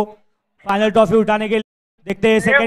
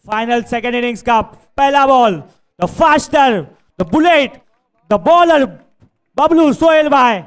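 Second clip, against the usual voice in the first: building hype up to the bowler; excited cricket commentary; 2 semitones higher, slower than usual. Real, not acted.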